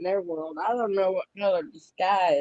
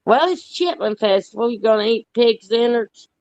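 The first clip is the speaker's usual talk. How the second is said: louder, hearty calling out; loud invitation; 3 semitones higher, 9 dB louder than usual. Real, not acted. Inviting her friend down to South Carolina, loud and hearty. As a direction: boom it out like you're hollering across the yard. Loud teasing about chitlins.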